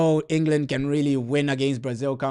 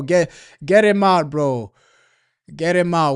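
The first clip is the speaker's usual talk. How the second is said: angry demand; 5 dB louder than usual. Real, not acted. Fan angry at manager.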